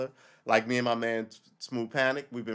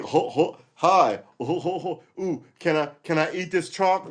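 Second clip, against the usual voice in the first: high, goofy mock voice of a pest; hammed-up pest, high and silly; annoying guy; 6 semitones higher, 7 dB louder than usual. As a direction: ham up someone you can't stand. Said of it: "if someone goes that you hate".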